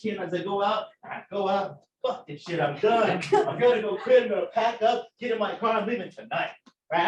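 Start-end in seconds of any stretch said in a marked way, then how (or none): 2.1-6.5 retold storming-out tirade; cussing rant. Student quitting as he leaves the lab, cussing angrily. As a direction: build from a grumble into angry quitting. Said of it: "I'm just cussing".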